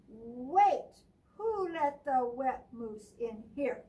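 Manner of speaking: loud indignant cry; upset shout. Acted. Bruce scolding about the wet moose, loud. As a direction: demand it crossly. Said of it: "he says".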